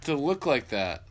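loud, high disbelief; incredulous outburst. Real, not acted. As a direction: yell in disbelief.

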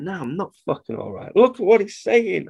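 retold frustration, climbing in pitch; exasperated outburst. Husband snapping back at his worried wife. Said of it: "And I'm going".

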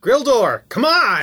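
loud, high call. Pretend. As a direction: call out across the room. Calling out to character.

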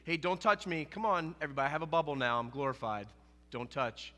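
hammed-up haughty keep-away; mock snobby don't-touch voice; mock aloof. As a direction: play a stuck-up, untouchable Jesus. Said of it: "It's not that he's so glorified".

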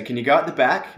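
Australian accent, lifting at the end. Shown as a demonstration. Breaking the sentence down for a Canadian learner, Australian accent. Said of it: "the sentence is".

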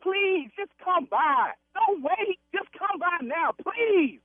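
drawn-out, provoking invitation; slow taunting dare. Acted. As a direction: bait the caller to show up. Daring the caller to come.

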